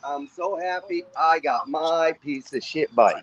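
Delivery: slow, mock-happy sarcasm; sarcastic. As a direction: drag it out, fake delighted. Mocking bike insult back sarcastically.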